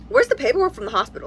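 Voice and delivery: a bit mad. Retold or imitated. Boyfriend demanding the hospital papers, a bit mad. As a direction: imitate a mildly annoyed partner. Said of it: "he looks a little bit mad".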